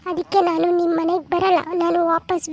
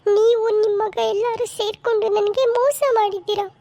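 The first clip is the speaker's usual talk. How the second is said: crying; 4 semitones higher than usual. Acted. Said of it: "ಯಾಕೆ ಅಳ್ತಾ ಇದೀಯಾ".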